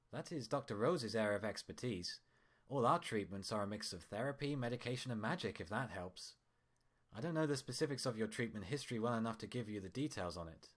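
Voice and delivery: lightly voiced doctor, smooth and friendly; a hint of a cheerful hospital doctor; doctor Dreamer. Doctor explaining treatment.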